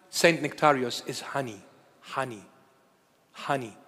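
low, hushed savouring of each word; fond reverence. Real, not acted. Savouring praise of a beloved saint.

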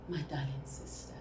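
soft, low address after a sigh; sigh, then speak low and tenderly to a sister; hushed and heavy; hushed sorrow. Acted. Sister grieves over abused sibling.

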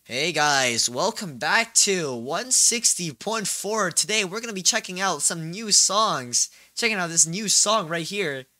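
loud, slow radio DJ voice; radio host voice. Pretend. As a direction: announce it like a radio DJ. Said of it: "know the radio?".

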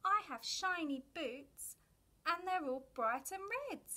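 a hint of a cheerful little ladybird. A narrator's reading. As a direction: read Ladybird's line with cheerful lift. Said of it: "little Ladybird said".

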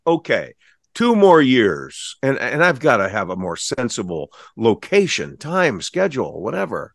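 mildly acted weary acceptance; mock resignation. Voices guest weary of busy schedule.

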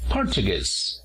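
"Portuguese" as por-chu-GUESE; stress on third syllable. Shown as a demonstration. Teacher models the word for portugués, "Portuguese" stressed on third syllable. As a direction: put the weight on the final syllable of "Portuguese". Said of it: "acentuar la palabra en la tercera sílaba".

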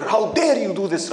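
mild acted indignation; anger. Natural response to being spat on, mildly angry.

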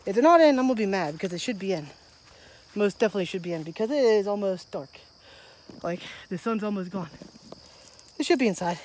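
breathless after a workout; winded, catching breath. Real, not acted. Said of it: "I'm all out of breath".

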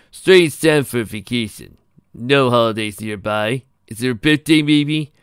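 loud, projected character voice, questioning; loud, curious questioner; inquisitive charmer Pokey, probing. A narrator's reading. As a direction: probe politely in a big, stretched voice.

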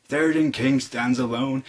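a hint of solemn wizard; lightly voiced grand proclamation; lightly acted Gandalf. Wizard announcing the king's plight from the hilltop, lightly solemn.

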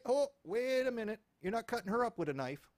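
a put-on voice stepping in to stop it; mock indignant hero. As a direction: Norm confronting the robber, hammed-up outrage. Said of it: "It's like".

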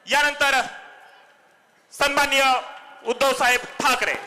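announcer calling for applause; rally speech. Acted. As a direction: hype up the crowd for the leader. Host introduces chief speaker.

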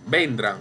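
vendrán said as VEN-dran; wrong first-syllable stress. Shown as a demonstration. Teacher repeats the wrong version, vendrán stressed on VEN. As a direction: stress VEN in vendrán and let the end fall. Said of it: "Usted no dice así".

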